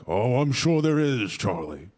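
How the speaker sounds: lightly voiced old man, slow and knowing; a hint of a doddering grandpa. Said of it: "the grandpa was like".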